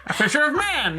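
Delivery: put-on high transatlantic accent on A fisher of men; hammed-up transatlantic announcer. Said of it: "Doing the transatlantic accent".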